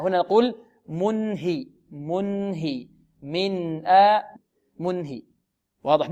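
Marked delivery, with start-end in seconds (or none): 0.9-5.2 slow "منهي" and "من آ", n held identically; same clear n. Shown as a demonstration. Teacher shows one pronunciation for both, clear n. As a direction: sound "mun-hi" as evenly as "min-a". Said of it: "نطق واحد".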